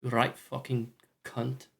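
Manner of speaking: drawn-out mock Scottish curse; Scottish insult. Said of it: "They're Scottish".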